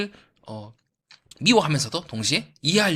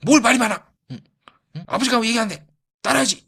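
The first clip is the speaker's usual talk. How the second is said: louder and higher, domineering scold; father browbeating; 5 semitones higher, 4 dB louder than usual. Retold or imitated. Old-school father shouting down his daughter, loud domineering scold. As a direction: browbeat the kid into obeying, raised voice. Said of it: "이렇게 약간 좀 윽박지르고".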